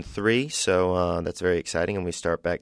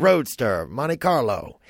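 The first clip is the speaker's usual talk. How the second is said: panicked car owner; 6 semitones higher, much slower than usual. Retold or imitated. Adam voiced panicking about car.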